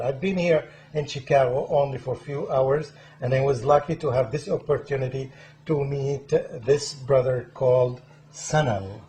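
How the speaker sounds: loud, emphatic welcome to viewers; show-opening host introduction. Real, not acted. Host welcoming viewers to the program, loud presenter delivery. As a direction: project a proud introduction of the guest.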